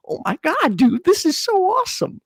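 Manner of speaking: put-on high, excited young guy; excited teen. Eighteen-year-old me gushing to himself, high and excited. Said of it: "I was so excited".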